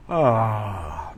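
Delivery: a mock yawning "Ah"; demo yawn sound. Shown as a demonstration. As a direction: let out a lazy open-mouthed yawn. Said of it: "like this".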